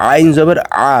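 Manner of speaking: আইন and আ pressed from inside the throat; firm throat ain. Shown as a demonstration. Teacher drilling ain, আ firm from the throat. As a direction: tighten the throat on আইন জবর আ. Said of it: "গলার ভেতর থেকে উচ্চারণ করতে হবে একটু শক্ত করে".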